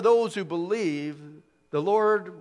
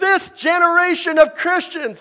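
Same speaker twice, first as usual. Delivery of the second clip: shrill, very high, loud near-yell; 10 semitones higher, 8 dB louder than usual. Quoting how a man would say a line: high, almost yelling. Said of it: "he'd say it in quite a high, almost yelling it. ... that's how he would say it".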